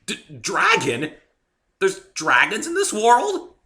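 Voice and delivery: slow, high alarmed stammer; stammering shock. A narrator's reading. Narrator learning dragons exist, stammering in alarm. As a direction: stumble over the word in disbelief.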